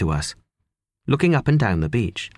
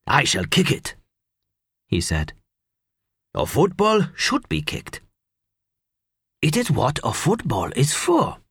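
put-on lightly German-accented, deliberate English; a German veteran speaking careful English; German man explaining to his friend, light German accent. A narrator's reading. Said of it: "foreign accent of some kind".

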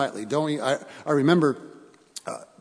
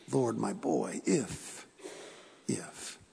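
desperate plea; 4 semitones lower, 7 dB quieter, much slower than usual. Acted. Father's desperate plea to Jesus.

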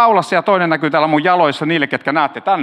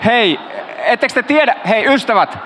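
mild mock preacher; 3 semitones higher than usual. Pastor mock-scolds listeners for chatting, in a light preacher voice. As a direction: lightly lecture the congregation like a stern pastor, tongue in cheek. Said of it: "pappi pauhaa".

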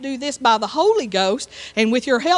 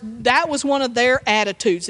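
usual speaking voice

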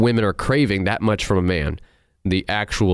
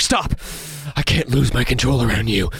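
overdramatic mock vampire. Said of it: "overcompensating the knight in shining armor".

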